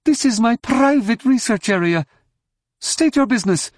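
very high, stern alien scientist; strident, officious demand. A narrator's reading. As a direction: challenge an intruder in a high, put-on voice. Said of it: "he said sternly".

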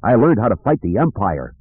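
a hint of proud, defensive defiance; defiant young man. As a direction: insist on newfound strength, lightly acted. Kip defends his dark training.

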